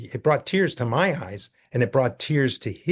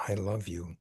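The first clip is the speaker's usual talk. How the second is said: sheepish; 3 semitones lower, 8 dB quieter than usual. Retold or imitated. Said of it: "very sheepishly".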